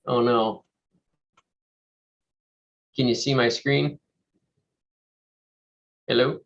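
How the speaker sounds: usual speaking voice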